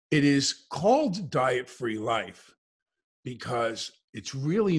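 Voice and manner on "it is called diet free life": It is called diet-free life slowly, with weight on called; slow it down and lean on called; deliberate emphasis. Shown as a demonstration. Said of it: "Listen carefully to the words".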